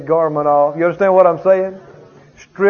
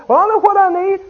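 defiant retort; 12 semitones higher, 3 dB louder than usual. Retold or imitated. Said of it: "the person's retort".

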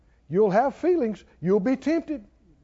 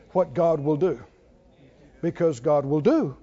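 ordinary delivery

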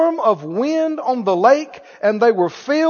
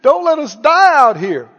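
mock begging; 4 semitones higher, slower than usual. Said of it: "And they're all begging".

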